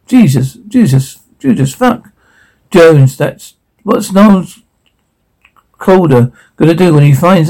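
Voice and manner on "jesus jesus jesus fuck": horrified. Acted. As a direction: gasp it out in horror. Horrified at sight.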